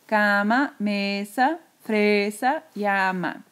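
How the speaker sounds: "Cama, mesa, fresa, llama" one by one, first syllables held; a measured list, stressing CA, ME, FRE, LLA; acento en la penúltima. Shown as a demonstration. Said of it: "La voz sube en la penúltima sílaba". ("Cama, mesa, fresa, llama" con la penúltima sílaba marcada)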